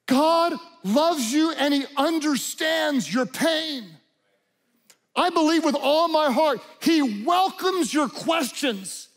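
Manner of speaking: full-force preaching. Acted.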